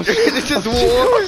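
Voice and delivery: laughing. Acted. Laughing dramatic declaration.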